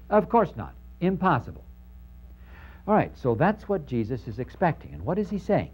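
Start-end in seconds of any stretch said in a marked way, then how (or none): 0.1-1.6 higher, incredulous no; emphatic scoff. Retold or imitated. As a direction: scoff at the idea as absurd. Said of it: "I'm expecting you to say".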